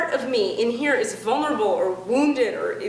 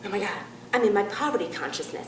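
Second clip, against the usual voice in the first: mock panic; 4 semitones lower, 4 dB quieter than usual. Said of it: "new thought people will do this".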